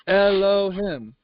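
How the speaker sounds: Elohim said slowly, syllable by syllable; drawn-out name. Shown as a demonstration. Preacher repeats the name to his listeners, slow and drawn out. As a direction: stretch out each syllable of Elohim.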